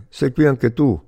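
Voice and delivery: high, surprised question, mildly called out; joyful exclamation. A narrator's reading. Prisoner astonished to find his friend there, mild joyful yell. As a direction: raise the pitch in glad surprise, short of a shout.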